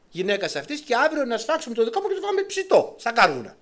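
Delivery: distraught woman complaining to the king; woman's complaint. Acted. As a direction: pour out the horror to the king. Woman telling the king of cannibalism.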